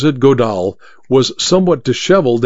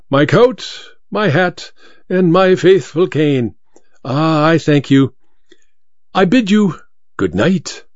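suave thief voice; 4 semitones higher than usual. A narrator's reading. Masked thief bids farewell.

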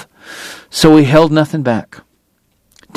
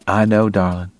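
low, soft sympathy; tender; 4 semitones lower, 5 dB quieter than usual. A narrator's reading. Man consoling his homesick lover, tender. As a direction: soothe her, softer and lower. Doc comforts the homesick woman.

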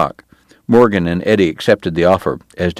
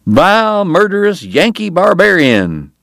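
much higher, savoring each insult; dreamy recital; 11 semitones higher than usual. Acted. Eddie, reciting Doc's insults to the priest, dreamy relish. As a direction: relish the words like verse. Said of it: "the Irish recited dreamily".

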